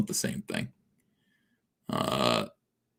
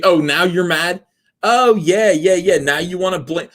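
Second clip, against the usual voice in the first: mock outrage, pitched way up; sarcastic; 8 semitones higher, 4 dB louder than usual. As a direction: toss it back with high sarcasm. Mocking the angry chat.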